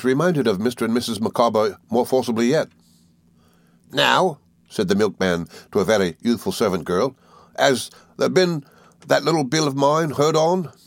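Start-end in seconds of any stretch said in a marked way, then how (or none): 3.9-4.4 milkman voice. A narrator's reading. Milkman demands payment. 7.6-10.7 milkman voice. A narrator's reading. Milkman demands payment.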